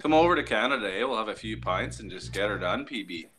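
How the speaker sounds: demonstrative Canadian twang; Canadian accent. Acted. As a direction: play up the friendly Canadian accent. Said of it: "I'll teach you Canadian".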